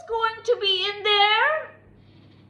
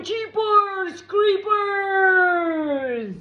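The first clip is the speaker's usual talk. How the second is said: scared shout; 6 dB louder, much slower than usual. Acted. Frightened character exclaims at ghost.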